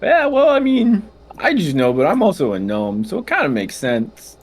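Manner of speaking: gnome voice. Acted. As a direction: cheer like a stoner gnome. Gnome voice continues.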